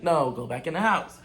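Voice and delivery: firm and dismissive, rising at the end on house; shooing him back inside, curt but controlled; firm dismissal. Retold or imitated. Sending the drunk friend back inside, firm and dismissive. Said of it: "This is exactly how I said it".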